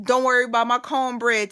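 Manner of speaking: "Don't worry about my cornbread" said tough and plain; hardcore. Retold or imitated. Recalling acting hardcore in jail, tough attitude. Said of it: "I went from hardcore".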